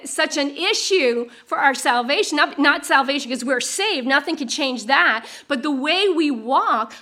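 normal talking voice

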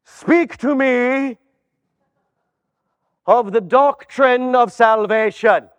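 slow, weighty question; a hint of a grand inquisitor; lightly voiced solemn manager.

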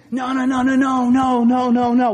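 loud repeated no, no, no; mock shouted no's; shouted refusal. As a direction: bark out the refusals. Quoting himself refusing, shouted.

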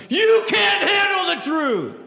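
full-throated high shout, slowed down; Jack Nicholson shout. Retold or imitated. Preacher acting Nicholson on the stand, big shout. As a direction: blast it from the witness stand. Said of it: "he just yells out".

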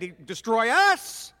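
slow demon's threat; threatening. Acted. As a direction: draw the threat out slowly. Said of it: "and he was threatening".

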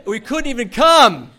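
loud, high, drawn-out exclamation; hammed-up indignant holler; mock outrage. Recalling a wedding disaster to friends, mock outrage.

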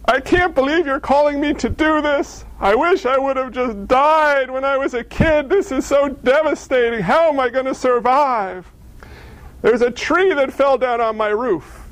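hammed-up whining to heaven; whiny prayer. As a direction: complain to God in an exaggerated whimper. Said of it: "That's what we say".

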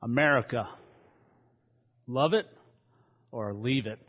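a mock Southern accent for a slogan; playful Southern-accent slogan. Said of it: "I had to do my southern accent".

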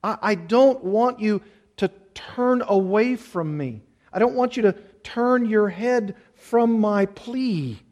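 slow, pleading prayer to the Lord; earnest prayer. Acted. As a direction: pray it out, begging to be heard. Pastor voices a prayer.

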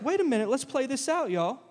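a hint of casual, curious anticipation; intrigued bystanders. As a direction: play a hopeful spectator, ending on a rise. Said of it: "So they're like".

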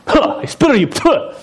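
high mock shout of hatred; mock hateful shout. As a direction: ham up a spiteful hater, way up high. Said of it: "when you walk in the room and go".

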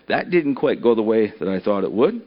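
low, soft, deflated sigh; sighing disappointment. Acted. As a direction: let it out on a tired sigh. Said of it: "he sighed and said".

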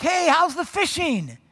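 high, loud, drawn-out hail; calling out. Acted. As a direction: yell it across the water to fishermen. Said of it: "And he yells out".

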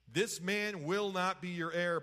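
each word of "This man will not be your heir" firmly placed; "will not be your heir", stated emphatically; emphatic pronouncement. Retold or imitated. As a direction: lean on "will not" as a firm ruling. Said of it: "That's very emphatic".

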